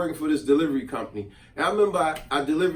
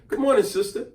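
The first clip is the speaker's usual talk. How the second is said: extra friendly greeting; 6 semitones higher than usual. Retold or imitated. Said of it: "took it even further and said".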